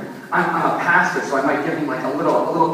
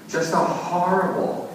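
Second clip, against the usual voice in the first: ordinary delivery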